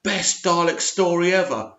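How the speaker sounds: sarcastic quote of fake praise; mocking fake fan praise; mock gushing fan review. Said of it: "These fake accounts".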